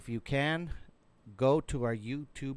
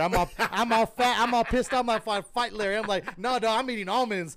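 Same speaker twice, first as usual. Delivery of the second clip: mock angry; 5 semitones higher than usual. Retelling angry reply to Larry.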